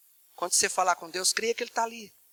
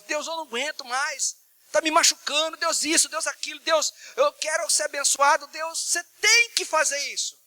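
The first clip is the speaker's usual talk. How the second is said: oração encenada em tom agudo e insistente; súplica expressiva; 5 semitones higher than usual. Acted. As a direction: suplique a Deus desabafando, cada vez com mais força. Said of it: "Você pode mudar a entonação de voz". (súplica insistente, voz mais aguda)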